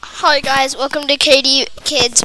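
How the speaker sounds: talking while eating; mouth full. Real, not acted. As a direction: speak through a mouthful. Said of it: "Sorry, I was eating".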